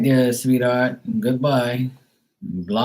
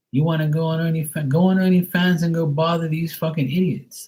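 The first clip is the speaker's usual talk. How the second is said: mock angry retort; 4 semitones higher than usual. Retold angry reply to stranger.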